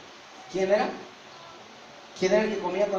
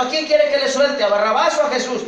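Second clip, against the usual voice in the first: addressing a crowd; 7 semitones higher, 6 dB louder than usual. Acted. Pilate calls out to crowd.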